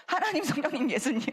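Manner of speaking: 하나님, 성령님, 예수님 pronounced syllable by syllable, each sound clear; carefully articulated. Shown as a demonstration. Instructor demonstrates saying 하나님 성령님 예수님 precisely, carefully articulated. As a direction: spell out 하나님, 성령님, 예수님 crisply and deliberately. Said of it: "이렇게 또박또박 해야 돼요".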